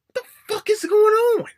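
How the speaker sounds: high, loud disbelieving shout; exasperated outburst. Real, not acted. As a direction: yell it in total disbelief. Rant about horse competition.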